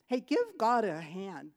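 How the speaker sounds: calling out. Real, not acted. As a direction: call the room to applaud. Calling on the congregation.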